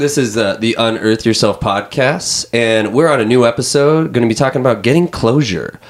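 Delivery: smooth podcast host intro; radio host voice. Acted. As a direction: announce it like a radio show. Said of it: "you sound like a radio host".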